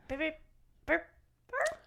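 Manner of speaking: halting little robot noises; spaced-out beeps, a feeble robot impression. Shown as a demonstration. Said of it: "give us your best robot".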